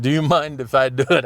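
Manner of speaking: lightly put-on Indian accent, slightly high; a touch of the customer's Indian accent; imitated Indian accent. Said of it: "I'm gonna do the accent".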